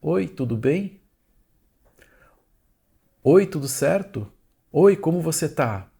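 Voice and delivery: a light imitation of a chirpy hello; imitating casual greetings. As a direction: mimic people saying hi in passing. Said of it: "toda a gente pergunta assim".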